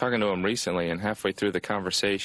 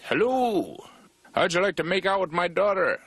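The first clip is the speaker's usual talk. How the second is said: overfriendly local; 10 semitones higher than usual. Acted. North Dakota stranger welcomes the traveler, overfriendly high voice. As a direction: put on an eager, high-pitched country host.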